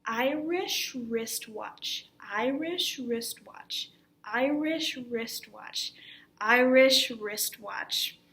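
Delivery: "Irish wristwatch" repeated slowly and evenly; careful articulation. Shown as a demonstration. Teacher leading repeats for the class, careful articulation. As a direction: drill "Irish wristwatch", stretching each word clearly. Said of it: "Let's try this one a few times".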